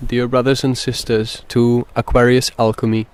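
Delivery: measured meditation guide with long pauses; guided meditation. Acted. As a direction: ease listeners in, phrase by phrase.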